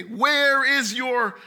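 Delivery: drawn out, slow mocking question; slow taunt. Adversaries taunting the psalmist, slow and mocking. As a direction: stretch the taunt slowly, savoring it. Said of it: "they say to me".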